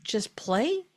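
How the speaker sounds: mock a know-it-all parent who can't stop teaching; preachy lecturing parent. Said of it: "the one go like".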